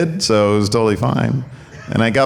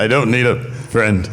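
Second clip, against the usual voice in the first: Cody crying impression. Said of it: "so I can do my Cody crying impression".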